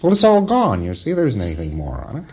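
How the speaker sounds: mock auditor. Lecturer voicing auditor dismissing.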